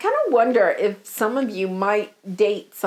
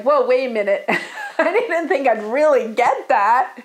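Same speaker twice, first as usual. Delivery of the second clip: laughing. Retold or imitated. Client surprised by getting wish.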